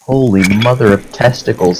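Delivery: sputtering after a drink went down the wrong pipe; choking and gasping for air. Real, not acted. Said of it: "that went down the wrong pipe".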